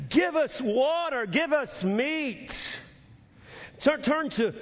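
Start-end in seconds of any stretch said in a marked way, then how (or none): 0.1-2.6 mock demanding.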